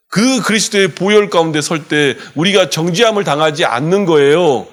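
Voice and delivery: rising fervent preaching. Acted. Pastor proclaiming to the congregation, fervent. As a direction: press the point home.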